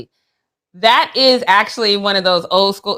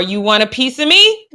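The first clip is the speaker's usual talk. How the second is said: mock challenge; 4 semitones higher than usual. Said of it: "the universal sign for".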